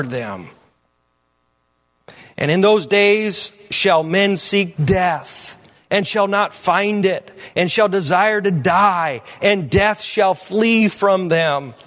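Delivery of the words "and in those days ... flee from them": solemn scripture reading. Real, not acted. Reads scripture emphatically to congregation.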